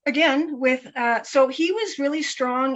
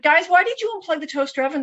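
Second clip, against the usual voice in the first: put-on a touch higher, brisk call to the kids; calling out to the kids, quick and raised; outside voice; 5 semitones higher, faster than usual. Mother calls to her kids about the toaster, raised and quick. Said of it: "in my outside voice".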